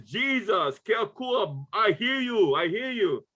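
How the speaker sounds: high, fervent cry of revelation, voice rising; an inmate overwhelmed, crying out to God; retold ecstatic outcry. Prison inmate cries out in chapel.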